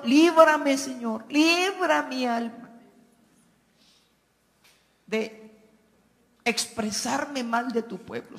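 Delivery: earnest prayer voice, calling on the Lord; pleading prayer. Real, not acted. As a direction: plead for the people before God. Pastor prays aloud for his soul. (oración fervorosa de súplica)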